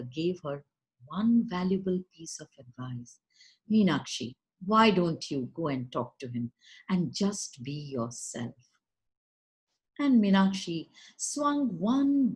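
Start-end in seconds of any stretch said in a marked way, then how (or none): 3.7-8.5 put-on lower, gentle old grandmother; grandmother's voice. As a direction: advise her low and kindly, like a granny. Grandmother gives advice.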